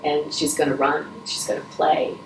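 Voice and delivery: soft, breathy, tearful reassurance; choked up. Real, not acted. Telling refugee parents their baby will live, choked and soft. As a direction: barely get the words out, moved. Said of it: "I'm a little choked up".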